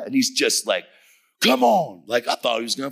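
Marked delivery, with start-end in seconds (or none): 1.4-2.3 higher and louder, squaring up; fighting challenge. Retold or imitated. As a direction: dare him to swing first. Man threatens to fight.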